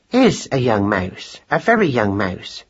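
slow, deliberately spaced words; distinct. A narrator's reading. Mouse wife corrects her husband, distinctly. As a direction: spell it out slowly and distinctly. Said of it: "said Madeline distinctly".

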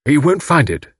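understated indignant certainty; defiant denial. A narrator's reading. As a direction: deny it with loyal conviction. Husband defiantly defends his friend.

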